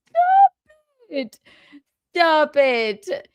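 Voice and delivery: high, loud shriek of stop. Real, not acted. Yelling at a named commenter.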